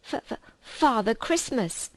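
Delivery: mild frightened stammer; stammering fox. Acted. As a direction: stumble on the first sound in fear. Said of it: "stammered the fox".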